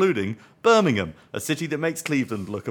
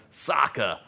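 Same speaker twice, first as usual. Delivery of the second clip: mock Dave impression; 4 semitones higher than usual. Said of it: "do their best Dave-O impression and start saying".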